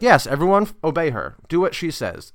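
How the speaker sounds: mock proclamation. Acted announcement of Petruchio to all.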